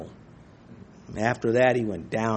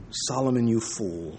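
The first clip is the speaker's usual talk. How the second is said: a soft, low scolding under the breath; muttered scolding; 4 semitones lower, 7 dB quieter than usual. Retold or imitated. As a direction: shake your head at Solomon, quietly. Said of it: "the whole time you're saying".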